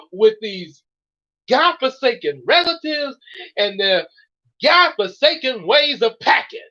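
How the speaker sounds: exasperated griping. Acted. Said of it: "Mary Lou has gotten so mad".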